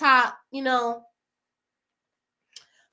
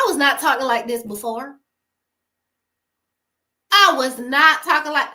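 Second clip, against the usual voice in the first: conviction; 4 dB louder than usual. Real, not acted. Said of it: "hear how I'm talking".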